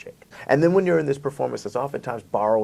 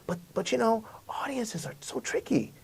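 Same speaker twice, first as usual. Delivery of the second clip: wry aside; 11 semitones higher, 8 dB quieter than usual. Real, not acted. Confiding aside about audiences.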